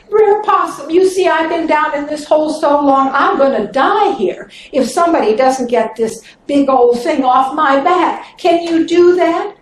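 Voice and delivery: high, wheedling snake voice; begging snake. Acted. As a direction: coax him into helping. Snake begs possum.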